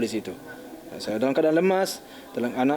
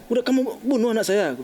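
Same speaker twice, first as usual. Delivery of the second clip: higher-pitched, mildly heated accusation; recounted rough words, voice raised in pitch; retold harsh accusation; 7 semitones higher than usual. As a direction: replay a harsh outburst, pitched up. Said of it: "kasar juga nih".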